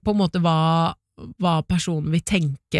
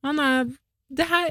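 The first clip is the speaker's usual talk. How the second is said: dreamy gut feeling; 8 semitones higher than usual. Retold or imitated. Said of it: "men bare sånn".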